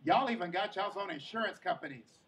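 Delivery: loud start, then a mild tipsy ramble; drunk grandma. Retold or imitated. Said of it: "My grandma was so drunk".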